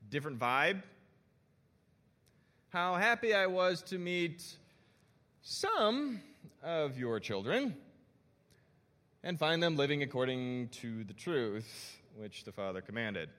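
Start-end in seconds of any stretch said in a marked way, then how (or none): 2.7-13.3 skeptical dad voice; a hint of a suspicious father. Shown as a demonstration. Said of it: "you guys know that voice".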